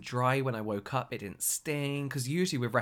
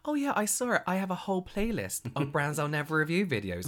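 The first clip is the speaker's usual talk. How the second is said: mock casual; 4 semitones higher than usual. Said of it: "And I was like".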